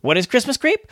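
spooky whisper. Acted. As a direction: breathe it like a ghost story. Spooky pun on creep.

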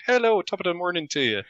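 hammed-up Irish greeting; mock Irish accent. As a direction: imitate a cheery Irish accent. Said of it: "start off as a Irish accent".

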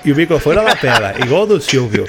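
disguised deep voice. Pretend. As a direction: drop the voice low for a secret identity. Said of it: "Eu vou falar igual o Silvio".

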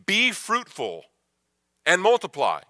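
booming command. Retold or imitated. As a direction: issue it as an order from God. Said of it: "he issues it as a command".

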